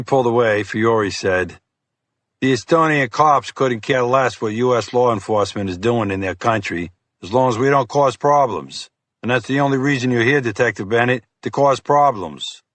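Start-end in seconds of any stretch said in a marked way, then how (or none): 2.4-12.6 lightly voiced smug agent; condescending FBI agent. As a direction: talk down to the meddling cop. Fiore lectures the detective.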